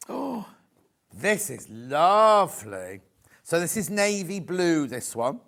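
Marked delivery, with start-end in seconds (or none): 0.1-3.0 slow, held-back words between hiccups; suppressing hiccups. Real, not acted. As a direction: hold back a hiccup while speaking. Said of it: "Oh, excuse me, hiccups in there".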